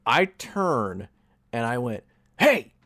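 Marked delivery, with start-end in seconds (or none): 2.4-2.7 sharp loud hiss of a call; half-whispered yell to get attention. Retold or imitated. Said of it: "Like, whisper yelled".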